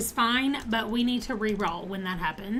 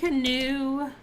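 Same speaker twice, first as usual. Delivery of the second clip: mid-yawn, slow and stretched; 3 semitones higher than usual. Real, not acted. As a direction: say it through a yawn. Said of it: "and now I'm yawning".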